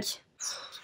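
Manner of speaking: unvoiced puff of effort; frustrated exhale. Real, not acted. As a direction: blow out air after straining. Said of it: "c'est dur d'être une meuf sans force".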